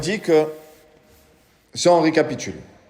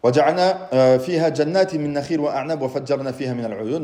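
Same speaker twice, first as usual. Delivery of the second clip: fast, rhythmic recitation of the verse; Quran recitation; much faster than usual. Shown as a demonstration. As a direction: rattle off the verse from memory, quick and even.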